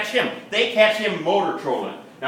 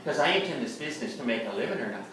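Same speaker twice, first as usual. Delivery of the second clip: understated sarcastic agreement, pitched lower; 4 semitones lower, 5 dB quieter, faster than usual. Acted. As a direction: let the sarcasm sit low and dry. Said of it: "real sarcastic, like he says".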